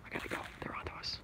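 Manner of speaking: soft whisper; soft, spy fleeing the ducks; mock spy whisper. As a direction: hush it like a spy who's been found.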